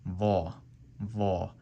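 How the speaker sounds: tongue below front teeth, heavy va. Shown as a demonstration. Teacher showing tongue placement for va. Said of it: "you're saying".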